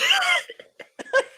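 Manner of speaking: very high wheezing laughter; shrieking laugh. Real, not acted. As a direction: crack up completely. Group cracks up.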